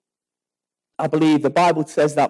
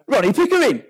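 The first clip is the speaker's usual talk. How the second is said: raised, indignant name-drop; self-important announcement; 5 semitones higher than usual. Acted. Road-rage driver naming himself, acted self-importance. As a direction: announce yourself as if famous.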